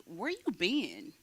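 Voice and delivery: a hint of a slow, pushy demand; light imitation of her own aggressive greeting, drawn out; mock aggressive. Imitating how she greets loved ones, mildly aggressive. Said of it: "kind of aggressive way".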